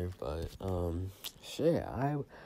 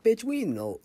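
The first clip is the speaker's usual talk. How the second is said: much higher, louder outraged snap; incredulous retort; 7 dB louder, slower than usual. Retold or imitated. Retorting to a classmate, high outraged disbelief. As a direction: fire back in disbelief.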